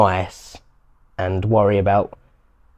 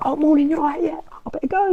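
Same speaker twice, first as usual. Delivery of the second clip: much higher, bright pretend phone voice; fake phone chat; 4 dB quieter than usual. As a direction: put on a cheery act for an invented call. Fake phone call to escape.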